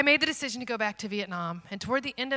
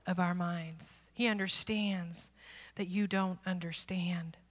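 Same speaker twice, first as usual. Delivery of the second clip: gentle reassurance; 2 semitones lower, 6 dB quieter than usual. Real, not acted. Preacher telling listeners God understands, soft and tender. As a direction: let each phrase settle quietly. Reassuring congregation of God's patience.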